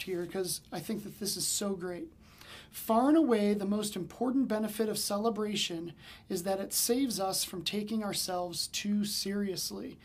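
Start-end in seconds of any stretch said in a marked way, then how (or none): 2.7-10.0 reading an excerpt. Acted. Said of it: "I wanna just read a little excerpt".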